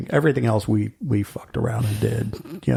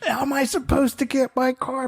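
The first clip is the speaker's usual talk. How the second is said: laughing reply; 11 semitones higher than usual. Retold or imitated. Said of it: "And he goes".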